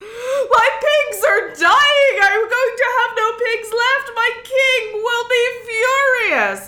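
high, loud furious accusation; furious outburst. Acted. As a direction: rage at your friend for killing your pigs. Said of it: "He was furious".

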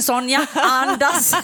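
drawn-out, urgent plea to breathe; urgent call. Retold or imitated. Sister tells her to calm panicking Sonja: slow urgent call. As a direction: stretch it out slowly to calm her. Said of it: "Jag bara".

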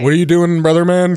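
hammy seventies cop; dumb cop voice. Retold or imitated. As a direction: stiff dopey cop voice. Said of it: "And that's Dumb Cop".

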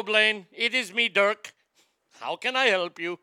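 hint of a put-on foreign tech-support voice; deliberate, over-polite mock helpdesk greeting; lightly voiced call-center agent. Dirk answering the Taliban's tech-support call, lightly put-on agent voice. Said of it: "when the Taliban calls".

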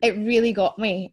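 fighting back real tears; choked up while thanking the poet; getting emotional. Real, not acted. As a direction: voice rising and breaking, close to tears. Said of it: "oh, I'm gonna cry".

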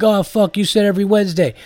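high-pitched mock gripe from an annoyed fan; exasperated fan impersonation, high; complaining listener. Mimics listeners griping at him.

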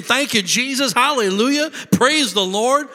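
high, loud praising; husband praising while passing cars, joyful; excited praise. Retold or imitated. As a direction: praise with rising joy.

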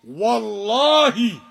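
"Wallahi" slowed and loud; stress on the oath. Shown as a demonstration. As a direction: swear "Wallahi" with weight. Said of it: "It is the oath".

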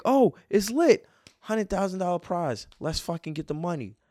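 high, loud burst easing off; hyped-up reaction, stretched at the start; retold excitement. Player reacting to a big cash prize, excited.

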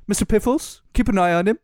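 hammed-up British accent attempt; John Boyega. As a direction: do a mock British boss giving orders. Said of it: "why is it like John Boyega".

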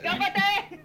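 GANBARE yelled high and loud; screamed Japanese cheer. Retold or imitated. Friend cheering on the reader in Japanese, high scream. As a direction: scream it like a rallying cry. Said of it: "I screamed".

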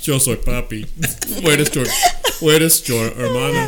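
hammed-up Spanish announcer; booming fake announcer read. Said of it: "With her Spanish announcer voice".

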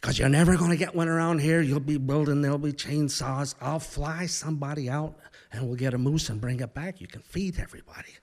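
exaggerated Midwestern accent, rattled along; Don Sheldon. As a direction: imitate a pilot's broad Midwestern pitch. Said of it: "this exaggerated Midwestern accent".

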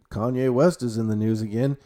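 bored, flat-toned news recap; disinterested. Retold or imitated. Vlogger recalls his bored reaction, disinterested. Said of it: "how disinterested I was in that".

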